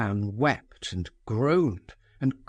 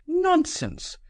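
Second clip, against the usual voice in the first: sharp high cry of scorn; cried out. Acted. Nastasia scolding Ferdishenko, a sharp high cry. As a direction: cut him off with one high word. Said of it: "cried Nastasia Philipovna".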